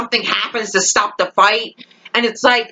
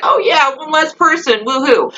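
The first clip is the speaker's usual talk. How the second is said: higher, sarcastic little celebration; mock cheer; 4 semitones higher than usual. Fan voicing Clark's supposed glee, mock cheering. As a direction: cheer it on insincerely.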